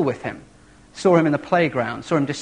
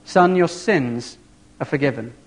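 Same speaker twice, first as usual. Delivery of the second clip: slow tender blessing; slower than usual. Retold or imitated. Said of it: "and he says".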